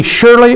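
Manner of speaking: surely lifted high as the key word; stressing surely. Shown as a demonstration. Preacher pointing out the word surely to the class, lifted high. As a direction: lift surely up to show it's the word in question. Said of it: "two ways to use this word here".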